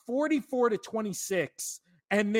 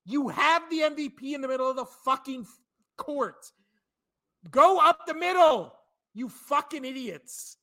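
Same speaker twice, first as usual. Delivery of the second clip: mock coach barking at his players, bursts louder and higher; angry coach yelling; 3 semitones higher, 3 dB louder than usual. Doc Rivers should yell at his team to stop shooting threes, furious mock shout. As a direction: play the fed-up coach chewing out his team. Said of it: "talk to your team and be like".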